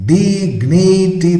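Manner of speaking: Dignity very slow and high, in three beats; syllable by syllable. Shown as a demonstration. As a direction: stretch each syllable of Dignity. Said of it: "three syllables".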